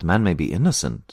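ordinary talk

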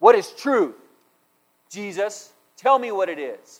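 mock angry, challenging tone. Imagining how Pilate questioned Jesus, the speaker acts it out: angry Pilate impression. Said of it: "was he angry?".

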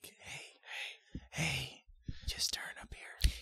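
just a whisper, barely voiced, very quiet. Joking about re-recording the Google Maps voices, giving directions: whispered directions. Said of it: "if we just do it in a whisper".

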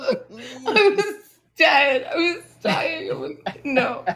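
breaking up in a laughing fit.

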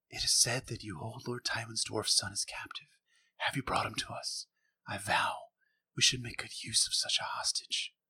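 creepy, tiny, small whispered voice. Retelling a scene, giving Roose Bolton's question: creepy small Roose Bolton voice. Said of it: "Roose says this in that creepy small voice that I just attempted".

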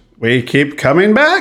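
drawn out, pitch swooping up and down. Talking about a cancelled cartoon's returns: bad Jon Lovitz impression.

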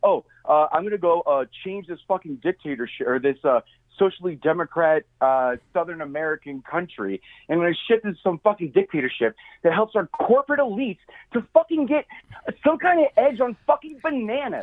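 ordinary talk

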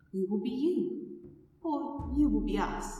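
warped, distorted, filtered version of the voice. Game master voices mirror reflections of the player: distorted copy of your voice. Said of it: "And you realize that although they are reflections of you, they're not reflections of you. And they both smile at you, and they duck their head a little bit in a bow. ... And it's your voice, but it's distorted. It's filtered through something. It's almost echoey, like there are three or four voices".

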